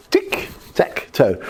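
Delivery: tic... tac... toe, slowly spaced out; slow, deliberate three-step beat; three separate beats. Shown as a demonstration. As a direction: count it off slowly, one word per step. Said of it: "there's, like, three things you go".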